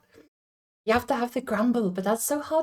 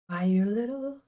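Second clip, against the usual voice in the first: angry Homer. Retold or imitated. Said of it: "you have an angry Homer".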